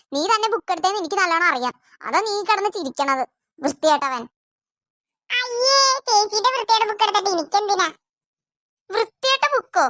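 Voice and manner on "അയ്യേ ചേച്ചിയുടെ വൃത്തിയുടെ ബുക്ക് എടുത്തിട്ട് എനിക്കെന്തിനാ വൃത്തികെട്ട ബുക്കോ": a lightly voiced small boy, higher, innocent; little boy voice.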